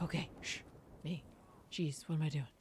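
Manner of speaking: hushed whisper; whispering on the phone. Real, not acted. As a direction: whisper so nobody hears. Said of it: "I feel like I have to whisper".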